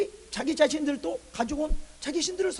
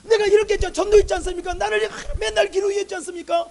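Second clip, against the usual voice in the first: loud, high string of protesting questions; acted resentful complaint; 9 semitones higher, 14 dB louder than usual. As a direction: pile up grievances at God, pressing each one. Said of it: "왜 이렇게 원망할까요". (원망하며 몰아붙이듯 항변)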